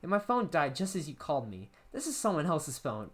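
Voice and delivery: breezy girl on a party phone, lightly played; Amy explaining. Amy explains the borrowed phone to John, lightly voiced.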